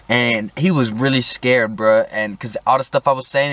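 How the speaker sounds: normal talking voice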